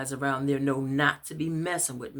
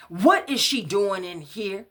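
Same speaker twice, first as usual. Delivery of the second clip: loud, higher, slow yell; screaming; 6 semitones higher, 6 dB louder, slower than usual. Acted. Angry man screaming from his chair at her. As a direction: bellow it from the chair. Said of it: "I heard him screaming from the chair".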